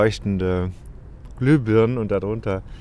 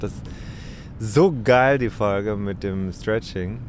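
excited caller. Retold or imitated. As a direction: gush like a thrilled fan. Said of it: "angerufen und gesagt". (begeisterter Anrufer)

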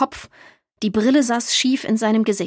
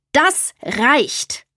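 gerufen; 3 semitones higher than usual. A narrator's reading. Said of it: "rief er".

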